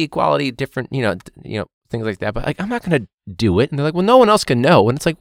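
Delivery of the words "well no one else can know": mock conspiratorial student. Student pleading for secret money.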